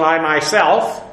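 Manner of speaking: "I myself" said slowly and deliberately; measured emphasis on "I myself"; stress on "I myself". Shown as a demonstration. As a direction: take time over both words, "I myself". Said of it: "emphasis on".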